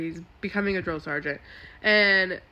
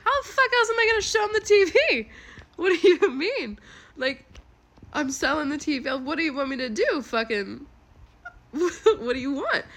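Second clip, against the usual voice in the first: much higher and louder, breaking into laughter; exasperated retort; 7 semitones higher, 5 dB louder than usual. Retold or imitated. Wife firing back at her husband about the TV, loud and incredulous, laughing. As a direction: throw it back at him in disbelief, laughing.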